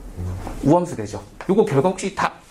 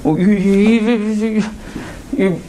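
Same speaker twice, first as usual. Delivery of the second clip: drawn-out stalling; 6 semitones higher, 5 dB louder, much slower than usual. Real, not acted. Teacher stalls drawing out sound.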